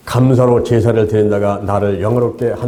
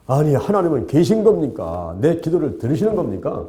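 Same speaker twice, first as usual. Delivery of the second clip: mildly aggrieved questions in prayer; complaining to God. Retold or imitated. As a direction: lightly act out a grumbling, exasperated prayer. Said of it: "막 불평을 하면서".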